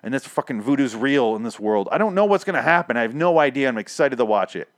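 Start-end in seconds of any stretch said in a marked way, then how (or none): 1.9-4.7 breathless after a long rant; running out of air at the end; out of breath. Real, not acted. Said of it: "I'm out of breath".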